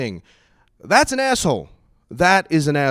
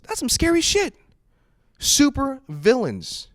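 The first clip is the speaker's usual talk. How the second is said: mock spooky; 11 semitones higher, slower than usual.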